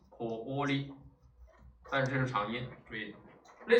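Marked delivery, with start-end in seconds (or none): 0.1-0.9 コーリ with a drawn-out o; long o. Shown as a demonstration. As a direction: hold コー, then finish on a short リ. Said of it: "它的长音是o". (コーリ里的o拉长念)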